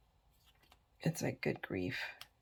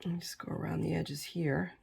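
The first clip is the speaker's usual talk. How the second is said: whispering; 9 dB quieter than usual. Real, not acted. Concentrating on fine gluing.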